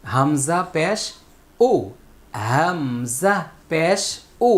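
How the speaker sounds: loud, slow drill of হামজা পেশ as ও with lips rounded, rising on পেশ; Quran recitation drill. Shown as a demonstration. Teacher drilling students on হামজা পেশ, loud rounded ও. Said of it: "আমার সাথে practice করুন".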